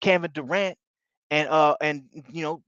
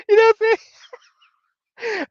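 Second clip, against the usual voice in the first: mock video game announcer, much higher and louder; 7 dB louder than usual. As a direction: boom it out like a basketball game announcer. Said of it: "I guess it was two K voice".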